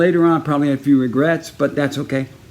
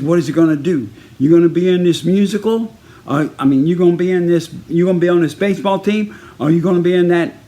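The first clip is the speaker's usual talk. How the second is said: raised, higher, insistent questioning; exasperated coach; 4 semitones higher than usual. Retold or imitated. Baseball coach forcing a choice between team and musical, exasperated coach. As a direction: press each choice like an irritated coach. Coach gives him an ultimatum.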